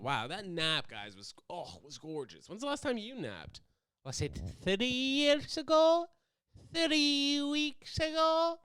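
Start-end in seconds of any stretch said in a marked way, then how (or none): 4.0-8.6 mock incredulous. Teasing viewers about their naps.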